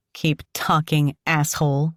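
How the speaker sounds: sharp defiant snap; snapping. Acted. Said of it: "she snaps".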